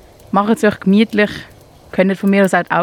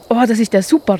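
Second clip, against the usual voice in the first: a touch of joyful excitement; light up with relief; delighted; 3 semitones higher, faster than usual. Acted. Mole thanks the hare, mildly delighted. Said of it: "rief Marvin erfreut".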